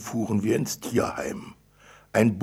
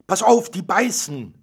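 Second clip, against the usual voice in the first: much higher, louder startled yell; alarmed shout; 10 semitones higher, 9 dB louder than usual. Acted. Father yelling a warning as his daughter reaches into a cage, alarmed. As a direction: warn her sharply in fright. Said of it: "brüllte ich erschrocken".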